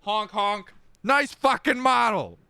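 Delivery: high honking clown voice; silly clown. Retold or imitated. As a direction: honk it like a goofy clown. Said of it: "To quote the great Civvy".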